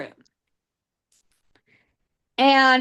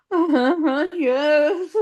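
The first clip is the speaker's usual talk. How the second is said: high, laughing yeses; giggly eager agreement; 4 semitones higher than usual. Retold or imitated. Retold eager giggly acceptance.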